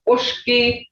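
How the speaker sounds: Ushki with a drawn "sh" in the middle; Creek pronunciation. Shown as a demonstration. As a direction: say Ushki as "oosh-kee". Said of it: "Hear that tone?".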